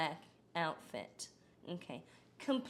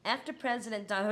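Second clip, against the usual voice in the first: rushed; faster than usual. Real, not acted. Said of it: "I can't even, like, say that".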